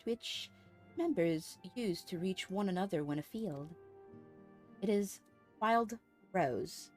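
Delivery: lightly voiced courteous order leader; formal, lilting dialogue read-aloud; formal game character. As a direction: deliver it as a stately quest-giver.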